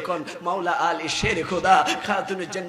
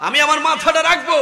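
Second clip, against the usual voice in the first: sudden high, loud cry; impassioned request; 9 semitones higher, 8 dB louder than usual. Retold or imitated. Preacher as the Prophet to Ayesha, impassioned cry. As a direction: lift the line out of the hush.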